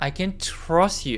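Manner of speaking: stress on trust, can kept light. In a Korean-language English lesson, practicing a sentence with stress on trust. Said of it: "이 can의 강세를 주는 게 아니라 뒷부분에 주셔야 됩니다".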